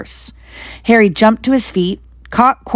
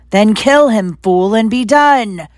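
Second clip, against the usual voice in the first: a touch louder, impatient order; mild screech; 3 semitones higher, 3 dB louder, slower than usual. Acted. Voldemort orders Quirrell to finish Harry off. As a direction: snap the order, slowing on the end. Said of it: "screeched Voldemort".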